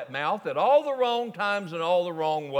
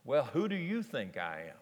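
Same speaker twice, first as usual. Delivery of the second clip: quiet, lower voice for Jesus; soft Jesus; 8 semitones lower, 8 dB quieter than usual. Acted. Jesus sighs and quietly asks his twelve friends. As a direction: ask it gently, almost weary.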